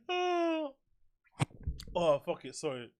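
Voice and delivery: hiccuping between words; hiccups. Real, not acted. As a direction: talk through hiccups. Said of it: "Loads of hiccups right now".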